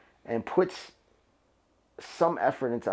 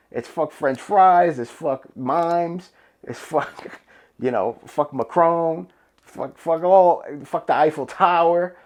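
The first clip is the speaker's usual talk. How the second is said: mock tirade; 4 semitones higher, 5 dB louder, slower than usual. Mock rant against the French.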